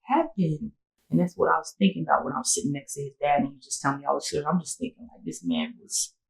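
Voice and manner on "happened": higher, louder, then slowing down; urgent calming. Retold or imitated. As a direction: jump in to calm him, then ease off. She calms the upset boyfriend.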